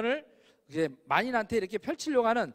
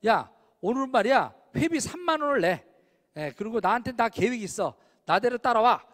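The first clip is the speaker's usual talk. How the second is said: louder, commanding take-charge friend at a reunion; bossy friend; 4 dB louder than usual. Retold or imitated. To old classmates at a reunion, a mock bossy organizer. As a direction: boss the group around. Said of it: "이렇게 하는 친구가 있어요".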